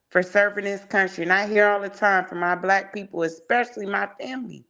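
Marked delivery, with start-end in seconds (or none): 1.2-4.7 talking while winded; a bit out of breath, pushing on; short of breath. Real, not acted. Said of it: "I get short of breath when I go too far".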